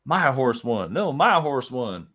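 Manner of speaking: mock southern drawl; bickering bettor with a southern accent. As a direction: argue it out in a playful southern accent. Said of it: "talk with that southern accent you have".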